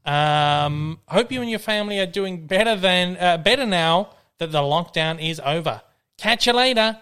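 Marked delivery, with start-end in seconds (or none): 1.1-7.0 lively, measured read-out; email read aloud. Acted. Podcast host reading a fan's joke email to listeners, lively read-aloud. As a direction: read each phrase out for the audience.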